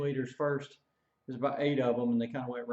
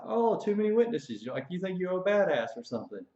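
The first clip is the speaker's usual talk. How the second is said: higher sneering echo of his words; mock him back, scoffing; mocking repeat; 5 semitones higher than usual. Drill sergeant scoffing at the recruit, high mocking tone.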